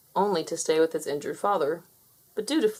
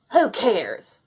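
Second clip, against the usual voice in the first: shout; 2 semitones higher, 5 dB louder than usual. Acted. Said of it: "Fowler shouted".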